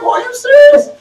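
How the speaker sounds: high outraged are you serious; incredulous shout. Retold or imitated. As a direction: yell it in mock shock. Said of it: "I'm like".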